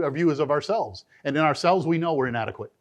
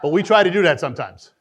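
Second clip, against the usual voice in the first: laughing aside; 3 semitones lower, 4 dB louder, faster than usual. Real, not acted.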